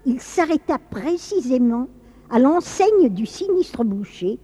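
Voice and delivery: dramatic, lilting storyteller with measured pauses; story narration. A narrator's reading. Narrator telling of Saint Nicolas and the butcher, storytelling. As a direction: tell it like a grave old legend.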